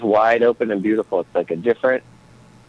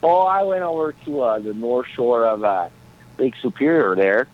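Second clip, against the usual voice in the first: a light put-on Minnesota accent; easygoing Minnesota accent. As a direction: chat like a folksy Minnesotan. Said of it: "I love that accent".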